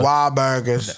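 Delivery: Boston accent put on; light parody of a Boston accent; mock Boston accent. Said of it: "They be talking crazy up there".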